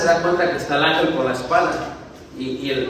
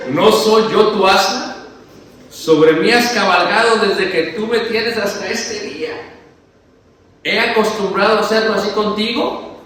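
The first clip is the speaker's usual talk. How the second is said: donkey's complaint; 5 semitones higher, 4 dB louder than usual. Acted. Preacher voicing the donkey complaining to Balaam, mock-hurt. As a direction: play the wounded donkey, lightly. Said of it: "El asna dijo".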